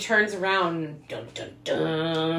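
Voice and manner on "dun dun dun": slow sung-out suspense sting; dramatic sting. Retold or imitated. Cohost marks the monster turning around, slow mock-dramatic sting. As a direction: intone a mock movie reveal.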